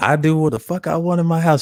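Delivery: put-on British accent, high, slow, drawn out. Quoting a kind-hearted woman he knows, imitating her British accent. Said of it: "She had that British accent".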